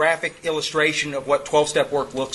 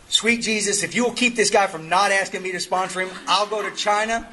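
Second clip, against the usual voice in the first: higher-pitched mock plea to heaven; mock pleading prayer; 3 semitones higher than usual. Sponsor begging Jesus to spare him this guy, mock pleading. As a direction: bargain desperately with God, hammed up. Desperate bargaining prayer acted in story.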